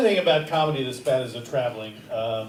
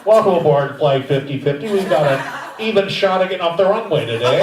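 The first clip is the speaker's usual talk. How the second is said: airline announcer; 4 dB louder than usual. Acted. Mock airline announcement to passengers.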